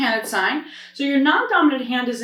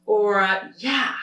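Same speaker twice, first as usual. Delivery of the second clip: casual yeah; slower than usual. Shown as a demonstration. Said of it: "just a basic yes".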